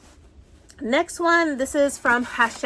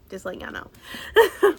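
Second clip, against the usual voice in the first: higher, louder teasing repeat; playful emphasis; 9 semitones higher, 6 dB louder than usual. Real, not acted. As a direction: sing it out playfully to the viewers.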